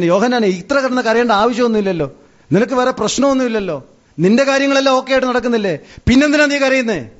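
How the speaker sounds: high-pitched, mounting mock remonstrance; insistent questioning. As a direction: press the weeper with rising questions. Acted questioning of weeping John. (ഉയർന്ന സ്വരത്തിൽ നിർബന്ധിച്ചു ചോദ്യം ചെയ്യുന്നു)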